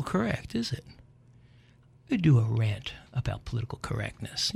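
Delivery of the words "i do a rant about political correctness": whispered aside. Real, not acted. Aside promising a later rant.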